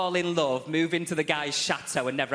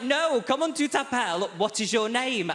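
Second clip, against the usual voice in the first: frustrated professor; 8 semitones higher, 3 dB louder than usual. Retold or imitated. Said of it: "He's like".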